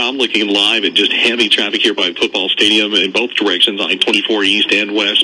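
steady, brisk-sounding traffic update; radio traffic report. Real, not acted. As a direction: deliver a live on-air traffic bulletin.

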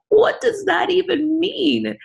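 stunned, breathless whisper, pitched high and slow; a slow, high, shocked whisper; incredulous whisper. Retold or imitated. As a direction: whisper it in disbelief, barely voiced. Stunned caller questioning HR rule.

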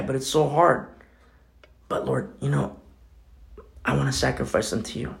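hushed, honest talk with the Lord; quiet prayer. Pretend. Believer quietly praying to the Lord about a coworker, hushed. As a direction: pray it softly, like confessing to God.

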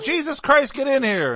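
high, loud mock fatherly tirade; hammed-up angry dad shout; yelling dad. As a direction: holler orders like an exasperated dad. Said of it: "how his dad would yell".

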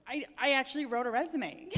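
real teary laugh breaking into the words; choked-up laugh; laughing through tears. Real, not acted. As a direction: laugh it out while still emotional. Laughs through tears over the memory.

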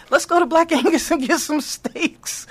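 high, giggly dinner suggestion; all excited. Retold or imitated. Excited friend proposes celebrating at Black Angus, giddy. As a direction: pitch it up eagerly, laughing as you go. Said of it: "I'm all excited".

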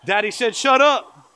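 put-on high, loud little-kid tattle; imitated tattletale kid; tattling child. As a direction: tell on daddy in a mock child's whine, drawing out the end. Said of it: "our kids are gonna be here".

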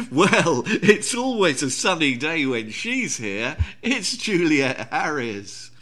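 oily, fawning, slow simpering voice; simpering John Cleese. Retold or imitated. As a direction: suck up to nobility, slowly. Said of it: "in that, that sort of simpering voice that John Cleese".

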